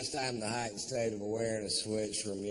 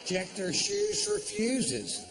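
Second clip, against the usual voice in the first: higher, slow and emphatic; emphatic advice; 11 semitones higher, 4 dB louder, slower than usual. Acted. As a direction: spell it out slowly, pitched up. Advising mother on airplane.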